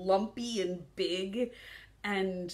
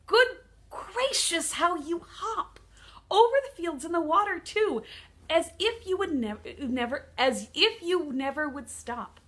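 lightly voiced, admiring storybook duck; eager duck; 6 semitones higher, 8 dB louder, slower than usual. Duck admiring the kangaroo's hop, lightly voiced eagerness. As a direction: read the duck's longing with lively, swooping pitch. Reads the duck's pleading in poem.

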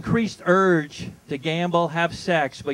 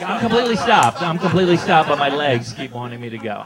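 mocking voice. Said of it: "I know I'm mocking this".

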